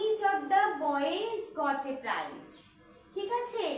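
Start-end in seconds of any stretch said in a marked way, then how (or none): 0.1-2.6 very slow, each word set apart; teacher dictating an example; slow dictation. Shown as a demonstration. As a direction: read it out slowly for students to copy. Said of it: "dictating example sentence".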